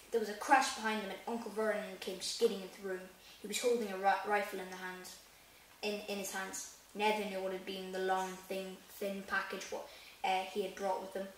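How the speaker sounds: reading the book aloud, evenly; steady storybook narration; story reading. Acted. Reads chapter aloud in vlog.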